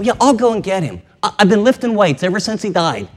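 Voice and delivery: rising, overwrought insistence; emotional. Acted. Mary insisting she can carry the body, overwrought. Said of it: "do you hear her? She's just emotional".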